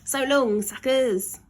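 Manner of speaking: high, loud mocking farewell; the boy taunting the caged grown-ups; gleeful taunt. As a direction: call it out with cheeky triumph. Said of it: "called out the boy".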